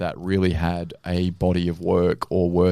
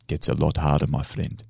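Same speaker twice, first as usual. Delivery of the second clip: put-on old man; 5 semitones lower, 4 dB quieter than usual. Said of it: "this old guy, and he goes".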